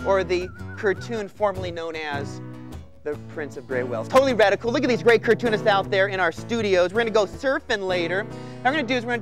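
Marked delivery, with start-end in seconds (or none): 4.1-4.7 surfer dude catchphrase, loud; extreme hyped kids ad. Acted. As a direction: punch it like a surfer.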